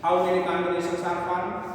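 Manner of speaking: very slow, every word spaced for dictation; deliberate, spaced-out reading; slow question. Shown as a demonstration. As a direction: read the exam question out slowly. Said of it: "अब यहाँ question है".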